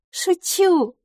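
very high, playful reassurance; reassuring. A narrator's reading. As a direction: brush the worry away lightly. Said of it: "успокоила мисс Лафос". (успокаивающе, высоким голосом)

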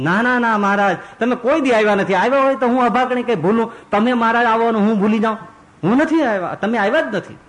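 put-on high, insistent old mother protesting she forgot nothing; pleading old woman. Old Vajiba insists to Maharaj he never came, high and pleading.

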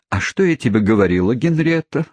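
a wounded wife appealing to her daughter, lightly voiced; deeply offended. Mother appealing to daughter against her husband, offended cry. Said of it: "тоном глубоко оскорблённой женщины воскликнула".

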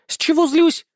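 high, loud outraged echo, stress on злюсь. A narrator's reading. Ustinya furious at his question, high loud outrage. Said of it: "Возмущению Устиньи не было предела".

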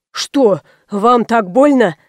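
slow, mildly alarmed question; ask, a little startled; frightened question. A narrator's reading. Doctor worriedly asks the girl, slow and mildly alarmed. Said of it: "испуганно спросил".

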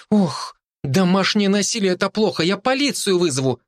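put-on outraged child promising to call police; exclaiming girl. A narrator's reading. Girl exclaims to the cat, high indignant voice. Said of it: "воскликнула девочка".

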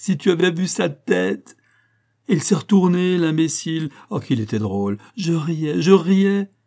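excited retelling, breaking into laughter; gleeful laughter. Acted. Gleefully retells catching husband in the act. (en riant, surexcitée et hilare)

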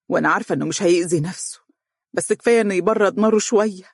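whisper. Acted. Mother confides her resolve.

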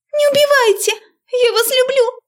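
very high loud shriek; desperate squeal. A narrator's reading. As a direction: squeal it in panic. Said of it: "отчаянным визгом".

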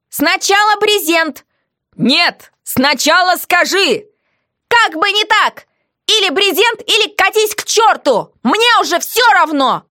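high, insistent ultimatum; slow, defiant high voice; stubborn prisoner. A narrator's reading. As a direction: refuse to budge.

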